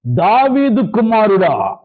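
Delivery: slow calling cry of a blind beggar from far off; long pleading call. Retold or imitated. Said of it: "అని పెద్దగా కేకలేస్తున్నారు".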